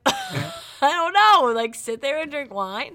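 exasperated high squeal. Retold or imitated. Exasperated retelling of reaction.

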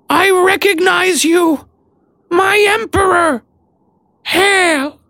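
very high, slow squeaky shout of elation; elated rat creature. A narrator's reading. Rat-like Maud greeting her emperor, squealing high with elation.

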